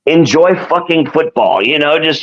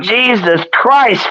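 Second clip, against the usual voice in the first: high, drawn-out yell at no great volume; mock yell; 7 semitones higher, much slower than usual. Friend imitates how the splattered fan yelled out, high and slow. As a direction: imitate a stretched, high-pitched outcry. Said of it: "he just yelled out".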